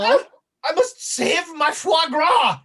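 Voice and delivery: high, hammed-up French-accented cry; desperate chef rescuing precious food, pitched high; frantic French chef. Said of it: "the chef is".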